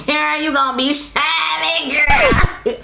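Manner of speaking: gushing, breaking into a laughing shout; real excitement spilling over into a laugh; excited. Real, not acted. Telling viewers about beach highlight, excited laughing shout. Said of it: "Y'all, I'm excited".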